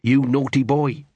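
mock-scolding chant muttered over; muttered litany. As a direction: recite it like a grim scolding. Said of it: "muttered Gaspode, like some horrible litany".

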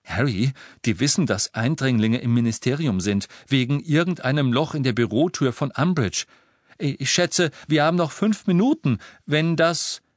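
high, urgent warning; worried young witch. Acted. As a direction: warn with rising alarm. Hermione warns urgently.

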